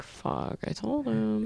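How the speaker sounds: breathless muttered whisper; imitating a horrified wife's whisper; whispered quote. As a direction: whisper it under your breath. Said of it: "Adrian's like".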